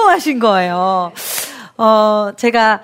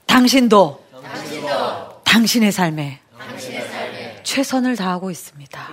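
gentle affirmation; 6 semitones lower, 5 dB quieter than usual. Shown as a demonstration. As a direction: say it softly to encourage the listener. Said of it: "함께 따라하시면 좋을 것 같아요".

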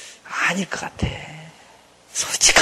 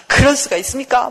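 raised, reproachful mock protest; acted indignation; 4 semitones higher than usual. Jonah challenges God over sparing his enemies, indignant. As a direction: protest to God in pretend outrage. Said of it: "그러면서 화를 막 내요".

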